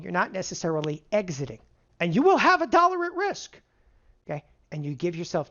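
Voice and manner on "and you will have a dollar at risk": will pushed high and loud; stress on will. Acted. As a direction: land the word will hard. Stressing point to students.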